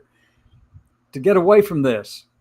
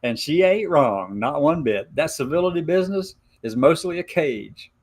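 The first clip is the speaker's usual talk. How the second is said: put-on hillbilly Appalachian accent. Reading Gemini's Appalachian letter aloud in a light Appalachian accent. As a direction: read it like a mountain gal with an Appalachian lilt. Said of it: "hard for me to talk like this".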